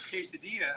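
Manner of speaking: "quesadilla" said with a silent double L; Spanish pronunciation. Shown as a demonstration. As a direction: say "quesadilla" as kay-suh-DEE-uh. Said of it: "As I just said".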